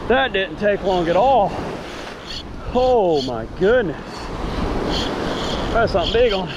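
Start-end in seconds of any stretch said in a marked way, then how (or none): none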